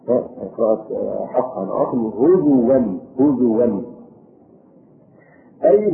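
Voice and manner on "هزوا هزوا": هزوا said huzuwan, the hamza replaced by w; "هزوا" with u on the zay and a w, no glottal stop; Hafs reading, waw for hamza. Shown as a demonstration. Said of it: "بضم الزاي وإبدال الهمزة واوا".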